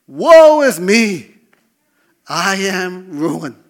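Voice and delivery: loud, slow, high despairing wail; anguished cry. Pretend. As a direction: cry out as Isaiah in ruin. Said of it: "first reaction ... was".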